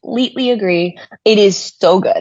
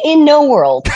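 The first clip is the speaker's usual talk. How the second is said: movie trailer voice; 6 semitones higher, 3 dB louder than usual. Real, not acted. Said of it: "saying that in the movie trailer voice".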